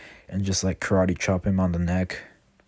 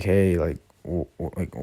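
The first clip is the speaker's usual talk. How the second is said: lightly acted drunk, slow halting words; drunk stuttering; slower than usual. Drunk wolf boy confronting Belle for talking to Ainz, stuttering slightly. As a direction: stumble slowly over the words, mildly tipsy. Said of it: "stuttering his words because he's drunk".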